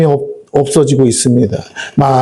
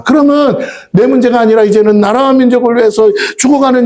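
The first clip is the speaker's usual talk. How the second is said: raised pitch, urgent pulpit plea; impassioned preaching; 7 semitones higher than usual. Real, not acted. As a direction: press the plea home urgently. Preaching at full force. (높은 음으로 절박하게 호소하는 설교)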